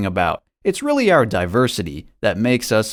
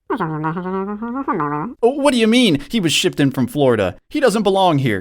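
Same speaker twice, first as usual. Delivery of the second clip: Karen voice; 5 semitones higher than usual. Acted. Calling police on stranger.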